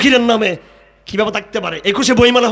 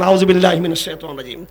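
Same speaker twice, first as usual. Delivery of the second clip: Quran recitation. Shown as a demonstration. Preacher reciting a Quran verse to the gathering, chanted. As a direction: intone the verse devoutly. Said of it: "আল্লাহ পাক বলেন".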